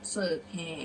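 deliberate verse with emphatic middle; prose-style recitation. Shown as a demonstration. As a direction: project the old words phrase by phrase. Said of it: "เดี๋ยวครูจะอ่านเป็นร้อยแก้ว".

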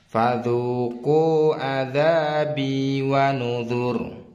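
slow chanted reading of a verse, vowels held long; long recited phrase. Shown as a demonstration. Teacher models a longer line for learners, slow tajwid recitation. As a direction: recite it in one drawn-out, measured phrase. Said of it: "Agak panjang ya".

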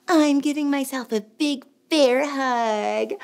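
ordinary delivery

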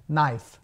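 "knife" as NAIF, low and falling; correct model. Shown as a demonstration. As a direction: say "knife" with silent K and E. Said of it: "como se fosse N I espaço F". ("knife" com K e E mudos)

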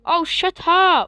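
slow, drawn-out annoyed "shut up"; calm turning angry. Real, not acted. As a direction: stretch it out, fed up. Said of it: "Really annoying me".

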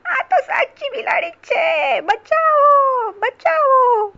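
loud, very high mouse shriek; high-pitched panicked cry for help; terrified scream. Acted. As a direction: scream for help, stretching the last words. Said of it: "ઉંદરે બીકના માર્યા ચીસ પાડી".

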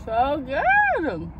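chewing while talking; talking between bites; mouth full of donut. Real, not acted. Seen 0: Ate donut just before; mouth closed, chewing while praising it.

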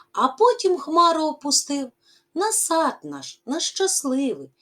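lively, rising and falling poem recital; expressive poem reading. Acted. Teacher reading the poem to pupils, expressive recital. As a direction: read the verse to the class with feeling.

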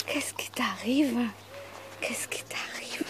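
hushed whisper to a pet. Real, not acted. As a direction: breathe it softly. Whispering to the dog.

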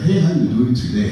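put-on lightly African-accented greeting. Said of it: "I use this accent".

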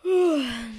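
long loud yawn. Real, not acted. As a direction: stretch it into a yawn. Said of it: "just had to yawn a little bit".

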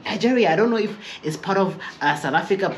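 high, unsure imitation; mock clueless coworker.

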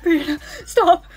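loud, urgent order to yourself; desperate self-command. Acted. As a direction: force yourself to stop laughing. Orders herself to stop laughing.

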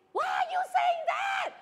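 shouting a question at the hard-of-hearing lady; shouting to be heard. Retold or imitated. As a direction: call it out so a deaf old lady hears. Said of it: "shouting very loudly to the vegetable seller because she's hard of hearing".

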